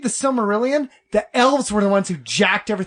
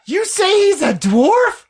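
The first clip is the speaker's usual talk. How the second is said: slow, theatrically betrayed dwarf; Gimli; 3 semitones higher, slower than usual. Pretend. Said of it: "Read everything he says in Gimli's voice".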